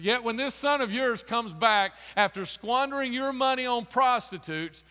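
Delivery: jealous son protesting to his father, indignant and loud; resentful older brother. Acted. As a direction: spit out the grievance, slowing on "prostitutes". Older brother's bitter complaint.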